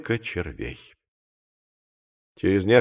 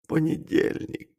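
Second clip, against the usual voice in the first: slow, barely voiced gasp of dread; stunned babble; 5 semitones higher, 8 dB quieter than usual. A narrator's reading. Clerk hearing when the audit comes, faltering in shock. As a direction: breathe it out softly, in shock. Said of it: "пролепетал Маковой".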